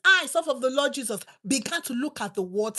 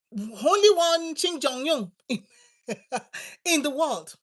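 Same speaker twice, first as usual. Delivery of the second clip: laughing; 2 semitones higher, 4 dB louder, slower than usual. Real, not acted. Laughs mid-line.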